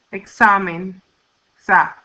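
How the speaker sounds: Examen, pause, then the stressed "sa" by itself; stressed syllable demo. Shown as a demonstration. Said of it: "stress on the next to the last syllable".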